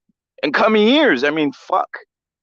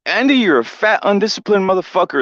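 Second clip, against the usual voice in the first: lightly voiced Canelo insult, pitch a bit up; a hint of Canelo mocking his fighter; imitating Canelo; 5 semitones higher than usual. Canelo ripping into Andy, a hint of mock scorn. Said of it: "He says".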